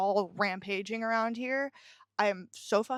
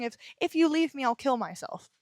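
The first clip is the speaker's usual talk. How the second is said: higher, mocking imitation of a manipulative threat; 4 semitones higher than usual. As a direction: parody a partner guilt-tripping. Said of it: "there's a toxic thing".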